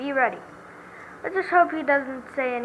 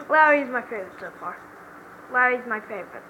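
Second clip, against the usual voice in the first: laughing; faster than usual. Real, not acted. Laughing remark.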